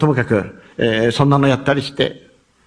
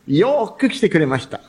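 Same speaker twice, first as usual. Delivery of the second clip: よーく held long, a bit higher; stress on よーく; 3 semitones higher than usual. Real, not acted. Telling the audience how friends came, よーく stressed. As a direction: dwell on よーく. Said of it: "よーく来た".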